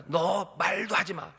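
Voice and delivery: slow, drawn-out mock angry warning. Balak sulking at Balaam, slow mock anger. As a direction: stretch it out in a cross huff. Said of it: "화나는 거예요".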